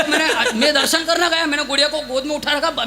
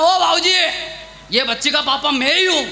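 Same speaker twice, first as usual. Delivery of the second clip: irritated retort. Retold or imitated. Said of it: "मेरा दिमाग खराब हुआ".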